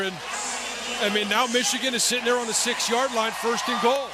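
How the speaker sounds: excited game call, building; live play-by-play. Real, not acted.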